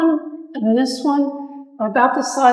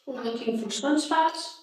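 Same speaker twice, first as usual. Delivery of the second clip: quiet voice; 7 dB quieter than usual. Real, not acted. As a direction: speak softly, barely projecting. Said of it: "she's not very loud".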